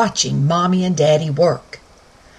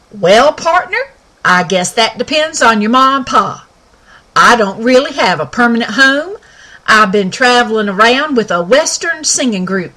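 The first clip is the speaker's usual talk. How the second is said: higher, louder cowboy pony voice; folksy Western pony, raised and bright; talking pony; 3 semitones higher, 5 dB louder than usual. Acted. Sky speaks.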